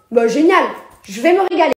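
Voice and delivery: loud, gloating glee; a loud, mocking "génial"; gleeful sarcastic threat. Real, not acted. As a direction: relish the revenge out loud. Sarcastic threat to hit back.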